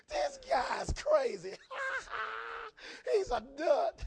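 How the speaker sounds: loud, slow mocking shout; scoffing mourners. Mourners mocking Jesus, loud and slow. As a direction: laugh him off as crazy.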